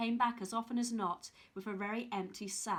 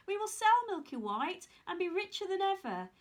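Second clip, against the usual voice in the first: eager Jack; 4 semitones higher than usual. Acted. Jack voiced, excited.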